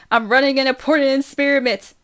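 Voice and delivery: put-on high, loud kid's retort; indignant little-sister yell; screaming back. A narrator's reading. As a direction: shout it down from upstairs. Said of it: "she screams back".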